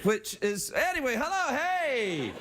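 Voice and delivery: put-on puppet Scottish accent; hammy Scottish brogue. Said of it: "with my Scottish voice".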